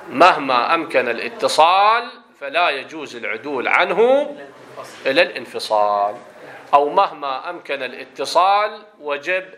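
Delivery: measured formal Arabic textbook reading; reading aloud. Acted. Teacher reading the pronoun rule to students, formal reading voice. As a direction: read out the rule in careful classical Arabic. Reads the grammar text aloud.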